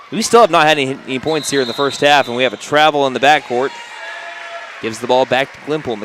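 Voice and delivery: brisk courtside game call; play-by-play. Real, not acted. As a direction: call the action as it happens. Live basketball play-by-play.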